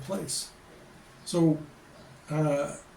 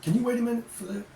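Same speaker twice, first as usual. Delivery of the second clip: imitating local phrasing; 6 semitones higher, faster than usual. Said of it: "if they need you to wait for a minute".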